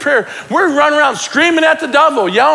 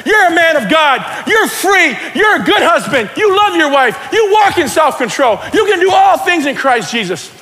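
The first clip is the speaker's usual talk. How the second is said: firm, raised preaching voice; forceful self-declaration; 5 semitones higher, 3 dB louder than usual. Retold or imitated. Man declaring truth to himself in the mirror, forceful preaching. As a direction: drive each affirmation home.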